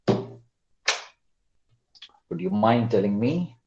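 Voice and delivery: dragged-out, slow questioning tune. Shown as a demonstration. Teacher mocking slow students with a dragged question. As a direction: draw each word out slowly. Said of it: "that's a slow one".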